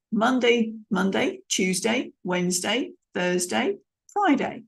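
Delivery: Monday, Tuesday, Wednesday, Thursday rising, Friday as the final word; listing tune with final drop; list intonation. Shown as a demonstration. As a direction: lift each day, close on Friday. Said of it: "giving a list".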